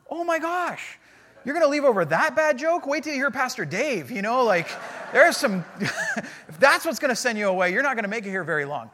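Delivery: a hint of high, loud incredulous outburst; retold disbelief. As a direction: lightly play up the shock, with a laugh breaking in. Retells disbelief at lady leaving.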